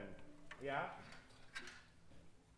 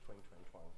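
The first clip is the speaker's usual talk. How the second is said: lazy twang; 12 semitones lower, 6 dB quieter than usual. Shown as a demonstration. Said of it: "when you're lazy".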